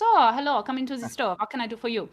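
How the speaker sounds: a hammed-up, not-quite French accent as a cat shopkeeper; bad French accent. Game master voicing the tabaxi shopkeeper to her players, in a mock French accent. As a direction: greet the customers in a playful fake French accent. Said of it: "so I can do a French accent".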